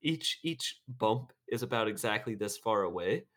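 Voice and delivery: lightly attempted British accent. Voicing a friend on Thanos' chin, British accent. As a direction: explain it in a rough amateur British accent. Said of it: "Do a British accent".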